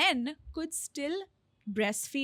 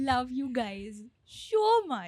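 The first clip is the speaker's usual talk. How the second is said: put-on baby voice; slower than usual. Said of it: "talk in a baby voice".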